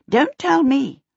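high, loud dismissive witch. A narrator's reading. Voices the witch.

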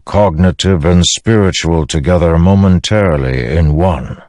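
lightly voiced storm spirit, stately and unhurried; Stormfather. Voices the Stormfather, solemn explanation.

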